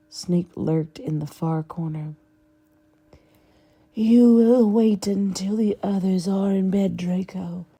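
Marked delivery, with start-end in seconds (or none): 3.9-7.7 cold whispered menace; Voldemort voice. Acted. Voldemort giving orders.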